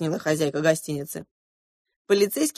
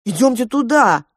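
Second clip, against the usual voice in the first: resolute; 6 semitones higher, 7 dB louder than usual. A narrator's reading. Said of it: "решительно сказал Эдвард".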